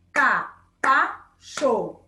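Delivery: Capacho very slow, ca-pa-cho, each syllable its own beat; split into syllables. Shown as a demonstration. Teacher clapping out Capacho syllable by syllable for pupils. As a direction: clap Capacho out in three slow beats. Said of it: "quando a gente bate palma?".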